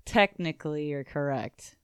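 begrudging. Acted. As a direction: concede it grudgingly. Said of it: "I begrudgingly said".

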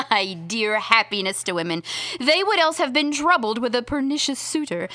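a mocking Beatrice teasing her rival; Beatrice reading.

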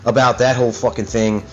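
real angry rant, pitch riding up; pissed off. Real, not acted. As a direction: rant like you're fed up and ready to expose them. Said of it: "I'm getting so pissed off right now".

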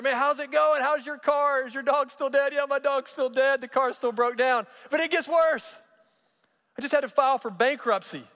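storyteller cranks up the friends' exchange; hammed-up excitement. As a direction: push the punchline up high and loud. Joke climax, both friends exclaiming.

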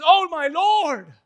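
loud, slow plea to the Lord; mild hammed-up begging; pleading Moses. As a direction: beg to be spared. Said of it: "he says".

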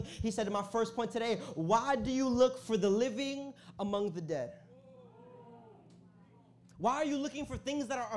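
preaching. Real, not acted. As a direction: press the question on the congregation. Preaches the main point.

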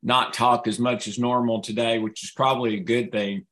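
strained voice from a sore throat. Real, not acted. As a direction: push the words through a strained throat. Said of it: "my throat is struggling a little bit".

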